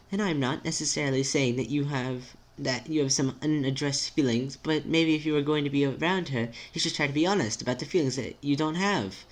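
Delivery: careful, precise friend with a swooping tune; timid, formal friend. Acted. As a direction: reason it out politely and tentatively.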